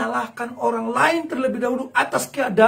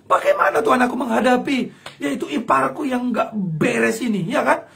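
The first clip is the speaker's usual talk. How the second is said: tearful half-laughing prayer; pleading prayer; 2 semitones higher than usual. Acted. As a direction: beg God for help, emotional. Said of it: "ngomong sama Tuhan".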